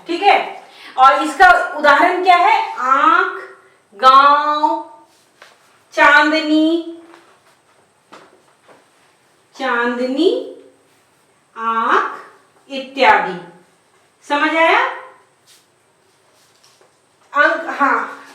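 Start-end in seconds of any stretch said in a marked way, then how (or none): 2.8-12.2 आंख, गांव, चांदनी with vowels through nose and mouth; nasalised vowels. Shown as a demonstration. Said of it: "नाक और मुंह दोनों से होता है।".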